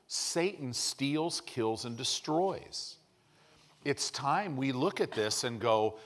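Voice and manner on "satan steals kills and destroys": slow, deliberate declaration. Real, not acted. Emphatic sermon declaration.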